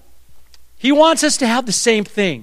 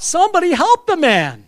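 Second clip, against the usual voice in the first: hammed-up cry for help; mock plea for help; 10 semitones higher than usual. Preacher's exasperated thought, acted.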